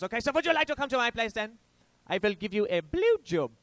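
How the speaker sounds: high, insistent mock German accent. German woman inviting the comic to her place, high German accent. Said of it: "demure German accent".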